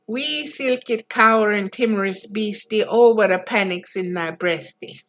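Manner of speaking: second, gentler read in broad Scots; a tender second read in broad Scots; broad Scots recited again. Retold or imitated. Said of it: "painted forever in broad Scotch dialect".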